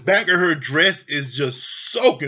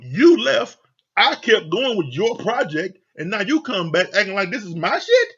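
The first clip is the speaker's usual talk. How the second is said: indignant, punched pronouns in a mock argument; role-played exasperated telling-off; acted rebuke; 2 semitones higher than usual. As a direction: lay the blame squarely on them. Acts out rebuking Lindsay.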